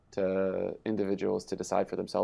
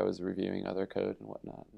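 yawning; 7 dB quieter than usual. Real, not acted. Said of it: "Mike is watching me yawn over here".

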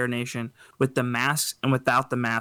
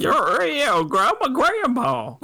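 put-on high, slow old lady voice; grandma voice; 11 semitones higher, 3 dB louder, much slower than usual. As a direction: play a wobbly old granny. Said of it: "That's my grandma voice".

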